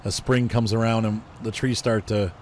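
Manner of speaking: stuffy congested voice. Real, not acted. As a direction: talk through a blocked, congested nose. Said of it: "You can hear it in my voice".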